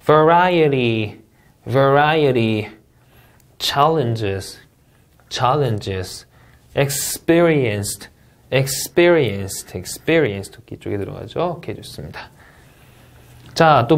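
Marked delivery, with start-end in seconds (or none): 0.0-2.7 slow "Variety" stressing RI; stress demo. Shown as a demonstration. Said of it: "계속 읽어볼게요". 6.7-10.5 slow "experienced" stressing PE; stress demo. Shown as a demonstration. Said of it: "계속 읽어볼게요".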